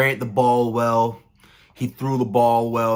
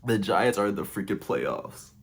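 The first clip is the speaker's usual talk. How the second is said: emotional, subdued; 2 semitones lower, 5 dB quieter than usual. Real, not acted. Fan repeating the playoff news softly, overcome with emotion. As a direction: let it sink in, moved. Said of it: "has me kinda emotional".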